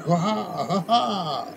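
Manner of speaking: slow, high hearty laugh; hearty laughing sailors; crew laughing. Acted. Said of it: "you hear some of the crew".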